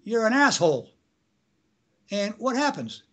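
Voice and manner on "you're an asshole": mock yell. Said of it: "you hear somebody yell".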